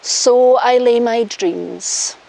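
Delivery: slow, solemn vow reading; officiant vows. Shown as a demonstration. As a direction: lead the vow line by line. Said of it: "repeat after me".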